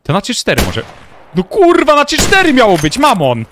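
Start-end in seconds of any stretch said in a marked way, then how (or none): 1.3-3.4 angry shout. Real, not acted. Teammate ignored the countdown.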